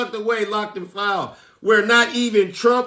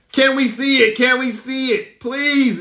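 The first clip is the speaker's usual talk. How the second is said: pleading crowd; 5 semitones higher than usual. Retold or imitated. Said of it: "is what the people ask".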